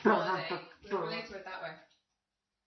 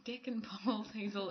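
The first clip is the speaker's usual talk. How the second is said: mock quiet, softer; quiet hiss; 7 dB quieter than usual. Teller retells whispering the answer to her sister. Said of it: "say it really quietly".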